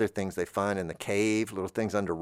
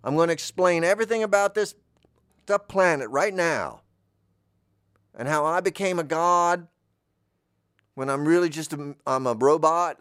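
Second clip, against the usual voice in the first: Bolubus; 5 semitones higher, 4 dB louder than usual. Acted. Planet god scolding intruders in his holy space, booming. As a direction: proclaim it like an offended deity. God figure explains himself.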